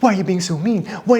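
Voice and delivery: high-pitched mock whine; whiny, over-emotional. Husband acting his old reaction to his wife, mock whiny. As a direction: complain like a hammed-up hurt whiner. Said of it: "Kind of the whiny, over emotional".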